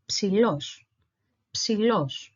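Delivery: "psilos" with the p sounded and stress on los; Greek pronunciation demo. Shown as a demonstration. Teacher putting the syllables altogether, careful Greek pronunciation. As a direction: model "psilos" clearly as psi-LOS.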